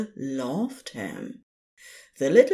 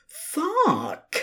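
panicked cry; 11 semitones higher than usual. Acted. Panicked curse near tears.

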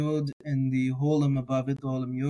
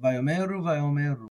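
at speed of speech. Shown as a demonstration. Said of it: "At the speed of speech, it's a little bit hard to tell".

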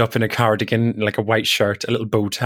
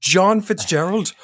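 disbelieving; 7 semitones higher, much slower than usual. Retold or imitated. Brother disbelieving the crush's name.

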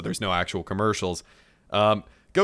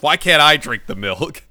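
whiny Goku; 6 semitones higher, 7 dB louder than usual. Retold or imitated. Goku's inner monologue, whiny.

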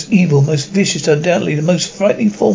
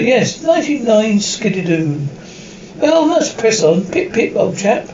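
hammed-up English gentleman; 5 semitones higher than usual. Doctor bluffs as a club gent.

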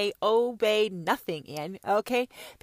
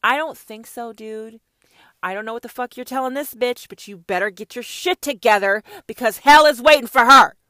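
1 voicing God; 2 semitones higher, 11 dB louder than usual. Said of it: "God heard you say".

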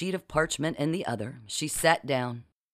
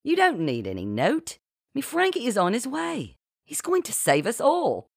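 high, swooping, triumphant boast; grand announcement; 8 semitones higher than usual. A narrator's reading. Genevieve tells the captives rescue is coming, grandly. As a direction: announce it grandly with big rises and falls. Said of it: "announcing grandly".

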